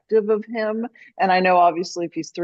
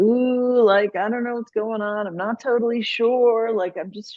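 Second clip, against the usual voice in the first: talking animal; 4 semitones higher than usual. Acted. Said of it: "that's my animal voice".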